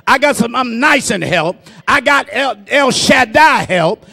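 building refrain with pauses between phrases; cadenced pulpit declaration; rhythmic preaching. Real, not acted. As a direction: drive each item home, gaining force.

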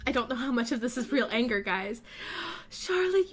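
usual speaking voice

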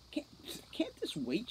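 sputtered whisper through foam; sputtering. A narrator's reading. Holly sputtering through foam at the sprite. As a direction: splutter it through a mouthful of foam. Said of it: "she sputtered".

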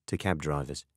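ordinary delivery, nothing marked

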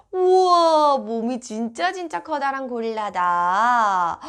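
put-on wide-eyed wow for a toddler; excited wow. Shown as a demonstration. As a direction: gasp in amazement at the gorilla. Showing the cover to a child.

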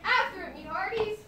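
rally the crew after the ball; pirate rallying crew over the ball, loud; pirate cheer. Acted.

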